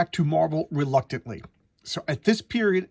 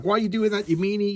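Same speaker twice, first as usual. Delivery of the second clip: a hint of a scolding kid, pitched higher; lightly voiced indignant girl; 6 semitones higher than usual. Teenage heroine scolds the villain for attacking, lightly voiced indignation. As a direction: lightly play a naive girl telling someone off.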